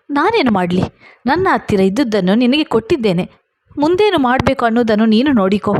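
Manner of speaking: rising angry retort, quickening to fast at the end; said in anger. Acted. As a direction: snap back at him, speeding up. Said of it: "ನಾನು ಕೋಪದಲ್ಲಿ ಹೇಳಿದೆ". (ಕೋಪದಿಂದ ವೇಗವಾಗಿ ಹೇಳಿದ ಮಾತು)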